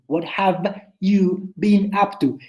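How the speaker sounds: "What have you been up to?" said slowly, each word clear; slow it down so every sound is heard; slow careful take. Shown as a demonstration. Teacher showing students the slow version of the question. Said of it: "Y por más rápido que lo digan".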